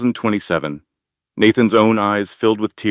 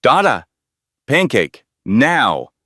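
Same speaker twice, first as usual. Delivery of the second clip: put-on louder, higher demanding toddler; a little boy yelling for pancakes; toddler shouting; 4 semitones higher, 3 dB louder, slower than usual. Lucas shouting at his dad for pancakes, louder and higher. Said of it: "by shouting".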